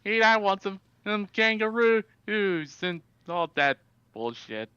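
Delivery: hammed-up Australian twang; Australian accent. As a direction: put on a cartoonish Aussie accent. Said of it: "how do you feel about my Australian accent".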